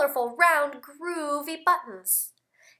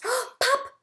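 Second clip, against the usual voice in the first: surprised gasp; 11 semitones higher than usual. Acted. Button pops, gasp.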